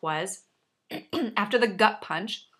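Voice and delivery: throaty, catching voice; frog in throat. Real, not acted. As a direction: talk through a frog in the throat. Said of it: "I have a little frog in my throat".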